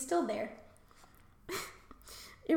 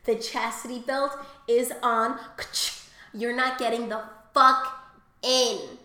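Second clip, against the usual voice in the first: firm refusal; 2 semitones lower, 5 dB louder than usual. Retold or imitated. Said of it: "subconscious me is like".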